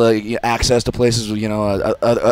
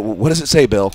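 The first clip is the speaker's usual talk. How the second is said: raised, loud imitation of a boss; insistent boss; 4 dB louder than usual. Boss asking about the ransom note, loud insistent imitation. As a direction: press him for an answer, acted. Acted boss questioning Bill.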